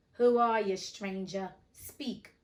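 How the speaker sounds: loud sudden challenge; demanding. Acted. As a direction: demand it of the unseen voice. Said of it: "Hook demanded".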